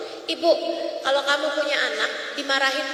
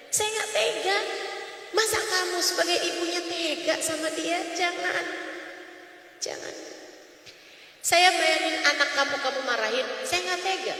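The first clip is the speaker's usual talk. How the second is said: softer, pained pleading; soft heartfelt plea; 3 semitones higher, 6 dB quieter than usual. Acted. Preacher softly confessing he can't bear it.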